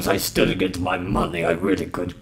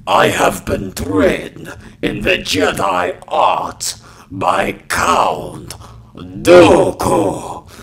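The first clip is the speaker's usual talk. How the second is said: slow raspy smoker's growl; smoker's rasp; 3 dB louder, slower than usual. Acted. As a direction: drag each word through a wrecked throat. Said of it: "take this one from the top with Smoker's Cough".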